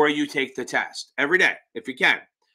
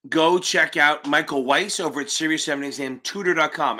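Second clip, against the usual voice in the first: said quickly. Real, not acted. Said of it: "I know I say it quick".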